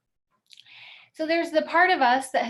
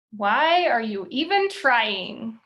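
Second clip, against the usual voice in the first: louder and slow, needling inner critic; slow mock critic jab; 6 dB louder, slower than usual. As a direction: drag out the critic's doubt. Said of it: "When she says".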